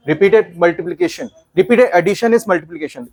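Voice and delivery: slow and deliberate; emphatic slow teacher recap; slow summary. Shown as a demonstration. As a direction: spell the rule out slowly. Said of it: "teacher summing up slowly".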